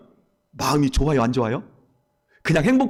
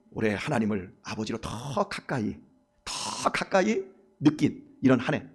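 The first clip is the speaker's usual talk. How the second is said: closing prayer; 4 semitones lower than usual. Acted. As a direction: pray it gently, letting each phrase settle.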